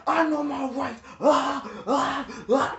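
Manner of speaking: mock the cousin crying about his rights; whiny cousin. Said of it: "he going crazy for what".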